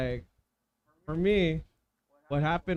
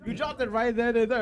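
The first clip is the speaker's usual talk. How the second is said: incredulous; 7 semitones higher, 6 dB louder than usual. Real, not acted. Incredulous at friend's story.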